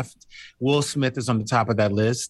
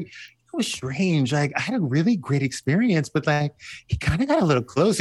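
gossipy hint; 3 semitones higher than usual. Retold or imitated. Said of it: "I was like".

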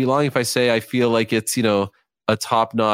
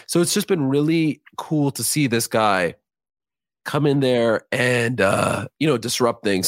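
hoarse, fading voice; losing voice; 2 semitones higher than usual. Real, not acted. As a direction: voice giving out, a bit raspy. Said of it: "Sorry, I'm losing my voice now".

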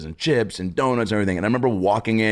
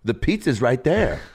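higher, slow, laughing mom voice; mocking chaperone mom; 7 semitones higher, slower than usual. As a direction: play the pushy mom, drawn out through a laugh. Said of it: "And she goes".

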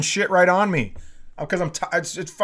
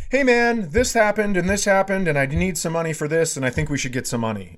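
a bit of a dick; 3 semitones higher, faster than usual. Retold or imitated. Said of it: "being a little bit of a dick".

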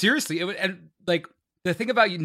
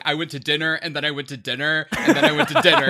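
mock-quoting professor. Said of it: "the professor told me was like".

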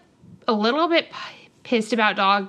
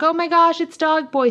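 higher-pitched, imitated thrilled recognition; mock starstruck delight; excited amazement; 6 semitones higher, 3 dB louder than usual. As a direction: act out spotting someone amazing. Acts Josh amazed at meeting Dog Boy.

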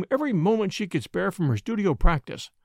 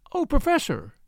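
a higher, pleading cry; appealing outburst; 10 semitones higher than usual. A narrator's reading. Young girl pleading with the professor, high appealing cry. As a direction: burst out begging him to explain. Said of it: "she burst out appealingly".

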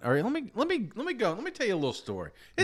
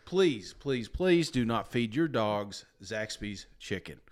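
mock public service announcement; 4 semitones lower, 3 dB quieter, slower than usual. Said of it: "the public service announcement".

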